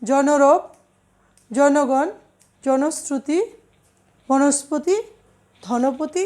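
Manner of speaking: জনরব as "jawnorob", first vowel aw, not o; first vowel kept open. Shown as a demonstration. Teacher showing compounds, জনগণ with open first vowel. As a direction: keep জন, বন, ধন open at the start of each compound. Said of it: "অটা অই উচ্চারিত হয়".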